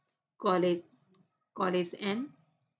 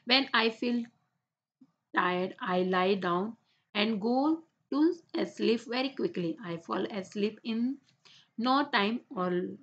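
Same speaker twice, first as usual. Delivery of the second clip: slow, careful read-aloud for the class; much slower than usual. Shown as a demonstration. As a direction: read each word out slowly and clearly. Teacher reads English paragraph aloud.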